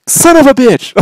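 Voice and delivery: high, loud mock curse; exasperated outburst. Wife three questions later, exasperated outburst. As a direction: imitate a wife suddenly cursing. Retold wife's delayed outburst.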